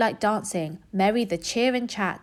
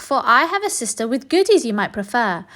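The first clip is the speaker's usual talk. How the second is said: sly duck; 2 semitones higher than usual. Acted. Duck tricks rat.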